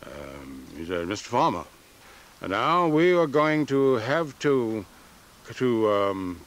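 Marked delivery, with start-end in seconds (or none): 1.1-6.4 Lyndon Johnson voice. Retold or imitated. Farmer retells Johnson calling him, lightly imitating. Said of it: "Lyndon Johnson's voice came on the telephone".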